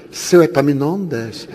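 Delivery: sweet, slow and gentle on the intercom; honeyed voice. Retold or imitated. Speaking sweetly to the doorman Epaminondas, slow and honeyed. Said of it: "uma voz melíflua".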